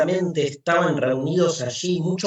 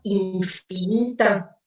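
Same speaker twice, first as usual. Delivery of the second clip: anguished madman; 7 semitones higher than usual. Acted. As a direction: ask it as if the ground is gone. Madman's rising questions.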